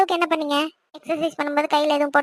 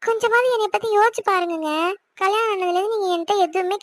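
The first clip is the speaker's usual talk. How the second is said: pleading wife; 2 semitones higher than usual. Acted.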